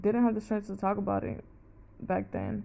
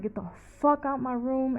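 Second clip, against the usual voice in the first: raised-pitch angry order, held short of a shout; retold losing it; 5 semitones higher than usual. Ordering partner out of her room, retold heated and higher. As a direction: re-enact an outburst, pitched up. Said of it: "there I lost it".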